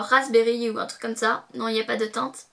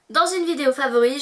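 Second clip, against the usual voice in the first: normal talking voice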